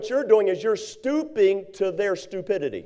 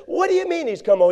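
put-on angry older brother; 8 semitones higher than usual. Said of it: "He's angry".

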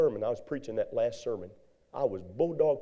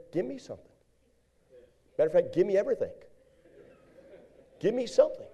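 desperate plea; 7 semitones higher, much faster than usual. Retold or imitated. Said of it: "I said".

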